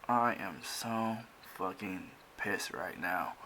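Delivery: acted seething thought. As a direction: spell out the anger word by word, quietly. Acting out Alexia's seething thought.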